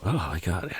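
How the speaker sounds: small mock-panicked squeal; freaking out. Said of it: "Jason freaks out".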